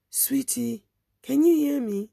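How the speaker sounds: rising call to reach her; urgent call. Retold or imitated. Woman calling to fading girl.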